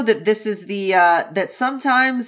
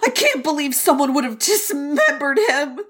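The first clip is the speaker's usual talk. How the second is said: fake shock; 4 semitones higher than usual. Voicing Jiggy feigning shock to Lan Xichen, fake dismay. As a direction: overplay the innocent shock, stretch the last words. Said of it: "He's so fake".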